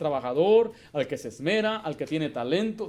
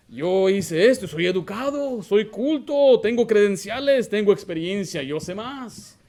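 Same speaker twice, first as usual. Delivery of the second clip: boastful know-it-all; 4 semitones higher, 7 dB louder, slower than usual. Retold or imitated. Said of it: "dicen estos".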